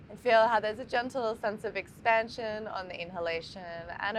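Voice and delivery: calm meditation guide, long pauses between phrases; guided meditation. Acted. Teacher guiding listeners to breathe into the heart, calm meditation voice. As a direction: lead listeners gently through the breath, leaving space after each phrase.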